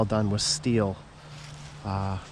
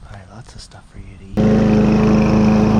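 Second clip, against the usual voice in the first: calling out; 13 dB louder than usual. Real, not acted. Loud call to the snake.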